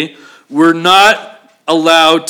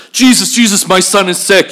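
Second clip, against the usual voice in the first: acted urgent plea, raised pitch; 4 semitones higher than usual. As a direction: call out anxiously for help. Acting the centurion's urgent plea.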